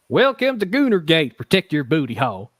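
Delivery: put-on country accent, announcing it proudly; hammed-up country-accent welcome. Host reading out a mock slogan to the chat, country accent. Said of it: "say this in country accent".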